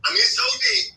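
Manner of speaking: sudden high-pitched worried cry; retold despair. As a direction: pitch it way up like you're sinking. Retold inner thought, despair.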